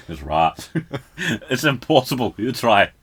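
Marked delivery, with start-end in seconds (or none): 0.1-0.7 Scottish right. Shown as a demonstration. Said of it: "It's a Scottish accent".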